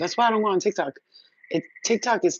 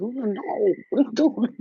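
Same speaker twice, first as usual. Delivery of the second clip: retold alarm; 7 semitones higher than usual. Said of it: "I was like".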